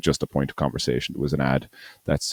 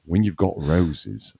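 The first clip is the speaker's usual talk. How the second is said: slow, drawn-out Australian ad voice; a hint of an Australian ad announcer; Australian accent attempt; slower than usual. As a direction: read the tagline slowly in a mock Australian accent. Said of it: "gonna attempt my co- Australian accent".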